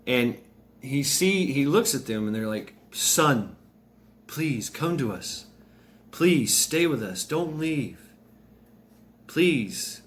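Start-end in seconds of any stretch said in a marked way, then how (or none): 2.9-10.0 higher, mildly imploring; lightly acted plea; pleading parents. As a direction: gently beg a son to stay. Dead parents beg Bruce to stay.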